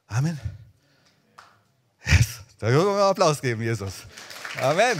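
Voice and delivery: rally the room to clap; rousing shout. Real, not acted. Preacher calls the congregation to applaud, loud and fast. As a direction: call out loud, fast and fired up.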